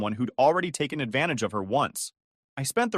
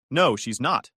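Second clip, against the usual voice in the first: anger boiling over; 3 dB louder, slower than usual. Acted. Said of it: "my anger boiling over".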